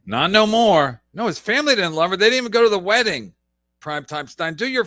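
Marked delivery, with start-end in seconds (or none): 1.1-3.4 fast, louder rebuttal; heated rapid correction. Real, not acted. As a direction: rattle off the facts to shut it down.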